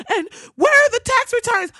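high loud demand; outraged shout. Real, not acted. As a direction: yell the question. Ranting at voters.

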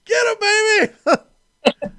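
high, excited cheer; cheering Henry on from the couch; mock cheer. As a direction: egg him on like a fan.

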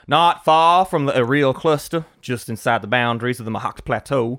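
put-on reading with a Georgian accent. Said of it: "my most astute Georgian accent".

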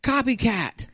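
high squealing "Copycat!" cry into laughter; playful yell of "Copycat!" at the TV; mock yell. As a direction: yell "Copycat!" at the TV, then crack up. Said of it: "I yelled at you".

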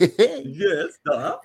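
put-on playful Russian accent with a laugh. Co-host agreeing to do accents tonight, laughing Russian accent. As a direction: agree like a mock Russian, amused. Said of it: "We all do accents tonight".

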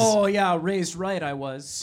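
put-on Midwestern accent. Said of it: "I'm gonna keep it up the whole time".

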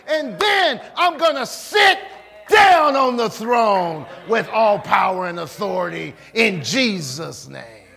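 triumphant sermon crescendo; building preacher's declaration. Acted. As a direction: pile up each vow, climbing to a shouted peak, then come down. Preacher builds Jesus's victory speech.

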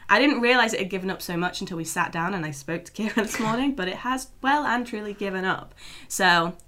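lost voice, hoarse and strained. Real, not acted. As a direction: talk through a worn-out voice. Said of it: "if I sound like a frog, that's why".

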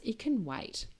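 breathy whisper, just between us; whispered aside. Real, not acted. Podcast host telling listeners email can wait, whispered. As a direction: drop to a secret whisper for the last words.

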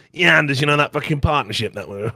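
a hint of a mocking Momo impression. Mimicking his co-caster Momo, a light mock voice. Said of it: "I've just done that voice for Momo".

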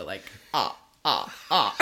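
low Count-style ah ah ah laugh; Dracula laugh. Shown as a demonstration. Guest demonstrating her laugh as Count Dracula, low ah ah. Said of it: "I'll sound like, like Count Dracula".

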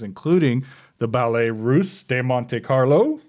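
put-on playful West Texas accent on Monte Carlo; west texas twang. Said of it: "Little West Texas accent there".

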